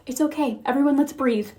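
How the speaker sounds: put-on softly soothing, as if settling upset kids; put-on gentle reassurance; mock calm parent. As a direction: drop the volume and act composed. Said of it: "I'm supposed to just be like".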